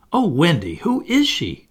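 put-on high, loud, eager child; excited cry. A narrator's reading. Nibs hearing the familiar story, crying out excitedly. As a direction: burst out as if astonished. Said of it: "every bit as excited".

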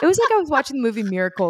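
gushing. Real, not acted. Gushing about her friend's triumph.

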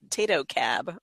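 first syllable of Tato rhymes with day; Tato pronunciation. Shown as a demonstration. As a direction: say Tato as TAY-toe, two syllables. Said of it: "depending on how you".

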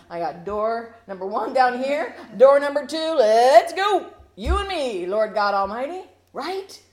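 loud and high, grabbing the deal; imitating an over-eager Moses shouting yes. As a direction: pitch it up like a game-show win. Moses eagerly grabs the offer.

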